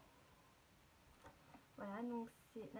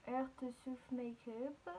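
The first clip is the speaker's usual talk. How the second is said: bad English accent; much slower than usual. Real, not acted. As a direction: read the English brand name slowly, clumsy French accent. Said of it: "J'ai un très mauvais accent anglais".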